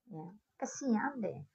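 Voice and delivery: whispered fake pity, slow; mocking whisper. Real, not acted. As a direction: breathe out a sneering pity. Taunting haters in whisper. (bisikan mengejek pelan)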